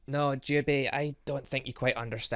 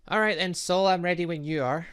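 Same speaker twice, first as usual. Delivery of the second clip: fired up; 5 semitones higher, 7 dB louder than usual. Acted. Challenging before a fight.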